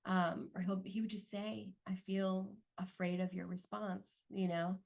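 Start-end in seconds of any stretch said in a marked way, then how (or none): 1.9-4.1 a calm, non-defensive admission; gentle tone. Retold or imitated. Husband calmly telling his wife he fears her response. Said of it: "he would say it in a gentle tone".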